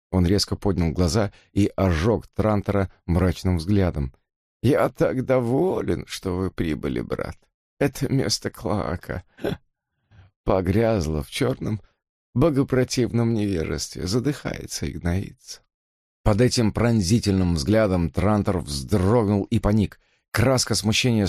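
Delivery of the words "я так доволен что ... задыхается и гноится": thin reedy voice. Acted. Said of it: "неприятным дребезжащим голосом".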